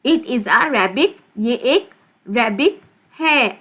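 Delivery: deliberate, spaced-out words; slow dictation. Shown as a demonstration. Teacher repeating the rabbit sentence for pupils, slow and deliberate. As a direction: say each word separately for young learners.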